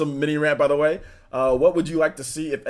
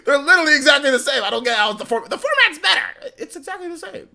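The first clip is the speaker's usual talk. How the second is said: exasperated; 14 semitones higher, 7 dB louder than usual. Real, not acted. Exasperated disbelief.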